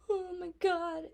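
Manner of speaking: high gasping oh my God; shocked gasp. Retold or imitated. Recalling her shock at a death in the show, gasping. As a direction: gasp it out, stunned by the scene. Gasping while watching, crying.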